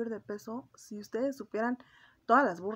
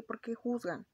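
whisper; 2 semitones higher, slower than usual. Real, not acted. Whispered aside.

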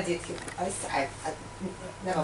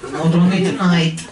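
put-on Russian accent; 2 semitones lower than usual. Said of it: "KGB comedy act".

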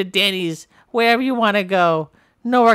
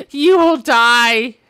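menacing threat; 6 dB louder, slower than usual. Acted. Threat after honest answer.

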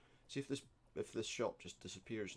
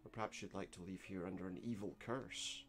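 angry shopkeeper; 2 semitones higher, 5 dB louder than usual. Acted. Shopkeeper angered by mockery.

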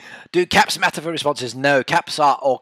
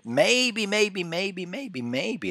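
high teasing sing-song, fading softer; playful high chant that fades; sing-song maybe; 7 semitones higher, 4 dB quieter, much slower than usual. Pretend. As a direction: lilt the maybes up high, trailing away. Teasing about an answer.

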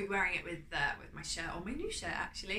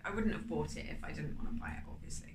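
whisper; 4 semitones lower than usual. Real, not acted. Whispered aside about the price.

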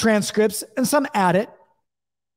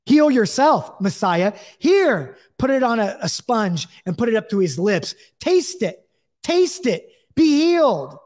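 taunting offer of sour wine, pitched up; mocking soldiers. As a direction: sneer it like a soldier mocking a dying man. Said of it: "they did it in a mocking way".

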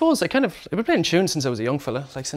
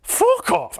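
furious yell. Retold or imitated. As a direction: tear into him with a yell. Boss ripping up CV.

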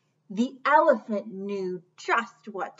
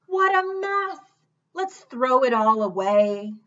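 brisk kangaroo; 6 dB louder than usual. Acted. Kangaroo tells Taylor to toss it, brisk and dismissive. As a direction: brush it all off briskly.

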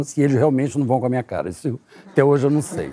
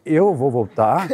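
shocked; slower than usual. Retold or imitated. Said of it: "Aí eu falei".

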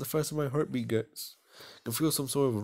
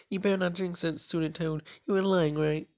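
higher, sharp and louder; indignant accusation; 8 semitones higher, 3 dB louder than usual. Acted. Embarrassed girl accusing the boy of lying, higher and sharp. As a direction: snap at him, flustered.

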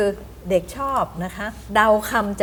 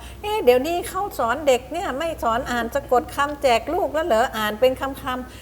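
mildly incredulous, higher-pitched questioning; puzzled questioning; 5 semitones higher than usual. Acted. Someone questioning how children are taught reading now, mildly incredulous. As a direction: lightly act a doubtful query, pitched up. Voicing a doubter of word-reading.

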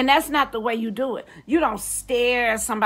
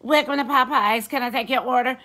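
mock intercom holler; 2 semitones higher than usual. Popeyes intercom worker hollering a greeting. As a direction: holler it like a drive-thru speaker. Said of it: "at the motherfucking intercom hollering".

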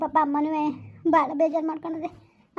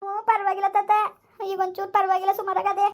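high, weepy reassurance; tearful; 4 semitones higher than usual. Acted. Granddaughter updating grandfather on mother's health, tearful. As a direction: report through held-back tears. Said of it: "ಅಳ್ಬೇಡ ಮಗಳೇ".

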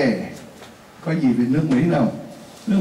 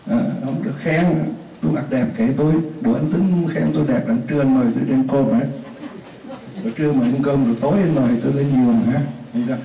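mock offended woman; faster than usual. Teacher voices offended woman boss.

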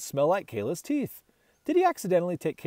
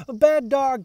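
higher and louder scolding; scolding yell; 8 semitones higher, 7 dB louder than usual. A narrator's reading. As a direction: snap it at the dog. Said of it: "she yells".

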